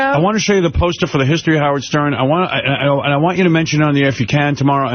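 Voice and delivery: fast, pushy pitch from an eager staffer; imitating Tim. Host mimicking his eager producer, fast and pushy. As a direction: rattle it off quickly like an eager assistant. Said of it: "He goes".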